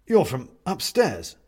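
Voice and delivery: slow, dazed realisation; dazed man. A narrator's reading. Injured man recognising his upstairs neighbour, dazed. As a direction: say it slowly, still dazed.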